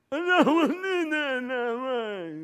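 high, loud crying protest; frightened wail. Retold or imitated. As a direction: wail in terror like a child. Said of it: "I just like".

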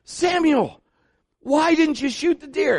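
high, loud mock exasperation; exasperated scolding. Father to son who let the buck go, exasperated. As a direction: demand an answer, loud and exasperated.

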